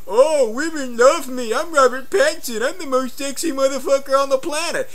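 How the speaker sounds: high, loud, conceited mock-English voice; Robert Pattinson. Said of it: "he gets an attitude with me".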